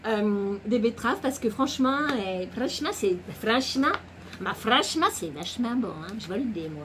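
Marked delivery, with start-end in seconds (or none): 0.6-5.1 playful Italian lilt on French; vaguely Italian comic accent; mock Italian accent. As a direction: slip into a badly faked Italian accent. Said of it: "ça fait un peu italien".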